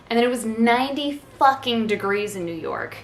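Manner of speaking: a passing hint of Italian accent on a rant; Italian accent slipping in for a beat; slight Italian accent. Real, not acted. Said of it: "Don't know why I turned Italian for that one".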